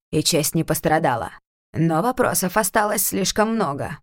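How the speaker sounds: lightly sneering uncle, measured; irritated lord. Acted. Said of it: "отчётливым раздражением обратился".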